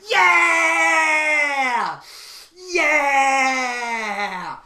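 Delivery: long drawn-out cheering yells; screaming wrestler's crowd-pleasing cheer; Seth Rollins. Acted. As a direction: holler a huge, falling yeah. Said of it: "screaming and shouting and cheering".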